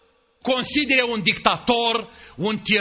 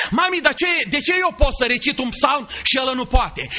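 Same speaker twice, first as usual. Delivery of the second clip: put-on eager child; 2 semitones higher than usual.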